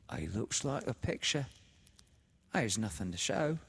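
fond and sly. A narrator's reading. Sister shows Laura the corpse, fond and sly. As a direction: coax fondly, with sly pride. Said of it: "fond and sly".

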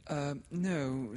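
put-on high, hurried girl refusing; Laura, flustered. A narrator's reading. A frightened girl refusing to come inside, flustered. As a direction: blurt it out, scared. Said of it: "said Laura".

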